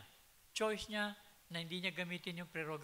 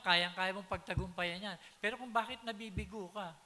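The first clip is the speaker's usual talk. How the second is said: forceful preaching; 5 semitones higher, 6 dB louder than usual. Real, not acted. Preacher building to loud climax.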